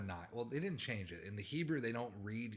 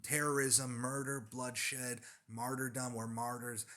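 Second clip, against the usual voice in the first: mock outcry; 3 semitones higher, slower than usual. Speaker mimics opponents crying victim after a killing, mock outcry. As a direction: cry out each grievance in mockery. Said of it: "they cry".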